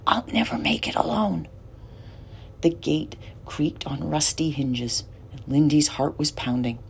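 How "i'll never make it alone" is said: scared whisper, voiceless; whispered fear. A narrator's reading. Lindy whispering her fear to Ben outside the dark house. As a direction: hush it, on the edge of panic. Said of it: "she whispered".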